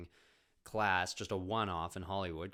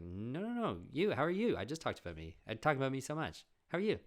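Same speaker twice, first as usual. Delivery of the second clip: high, loud insisting asker; insistent friend; 6 semitones higher, 5 dB louder than usual. Retold or imitated. Friend insisting he answer, high mock pleading. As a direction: push the question back high and bright.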